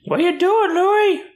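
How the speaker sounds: high sing-song pet voice. Real, not acted. Owner asking her puppy what he is doing, high baby talk. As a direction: coo the question at the puppy.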